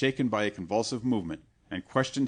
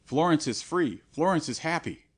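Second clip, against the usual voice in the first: higher, louder insistence; dying man insisting to the monk; insistent cry; 6 semitones higher, 4 dB louder than usual. A narrator's reading. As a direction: protest it with desperate conviction. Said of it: "cried Lorenzo".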